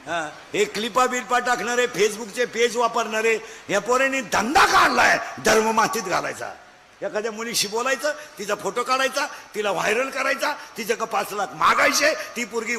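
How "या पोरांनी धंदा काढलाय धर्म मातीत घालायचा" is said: indignant shout. Real, not acted. Preacher condemning boys' racket.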